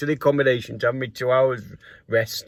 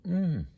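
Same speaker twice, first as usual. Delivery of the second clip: thoughtful hmm; 5 semitones higher, 7 dB quieter than usual. Retold or imitated. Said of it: "he looked and thought".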